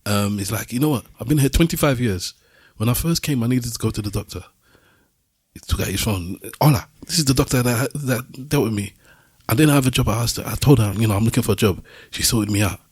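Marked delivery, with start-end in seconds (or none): 0.7-4.4 lightly voiced Moroccan storyteller; slightly raised Moroccan-accented delivery; imitated Moroccan accent. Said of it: "he's saying this in his accent". 6.6-12.8 put-on light Moroccan-accented retelling; mildly put-on Moroccan voice; imitated Moroccan accent. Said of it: "he's saying this in his accent".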